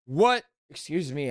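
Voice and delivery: hiccup cuts in mid-word. Real, not acted. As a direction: excuse a hiccup. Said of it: "I keep hiccuping".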